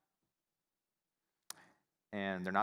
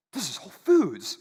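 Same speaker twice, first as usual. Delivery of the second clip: louder mock indignant manager; 5 semitones higher, 9 dB louder than usual. Manager's defensive retort.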